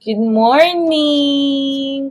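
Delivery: slow, drawn-out good morning; sing-song greeting. Real, not acted. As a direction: stretch it out cheerfully.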